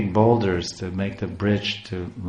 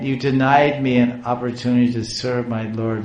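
lightly tearful, denied stressed, slightly raised; tearful protest; 3 semitones higher than usual. Retold or imitated. Giriraj protesting to the voice, a lightly tearful lament. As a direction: carry the complaint on, a touch of tears. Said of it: "I'm crying".

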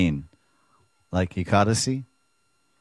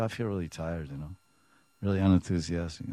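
much softer, droopy reply; mock tired guest; 2 semitones lower, 6 dB quieter, faster than usual. A tired partygoer answering how they feel, much softer. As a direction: sound utterly drained.

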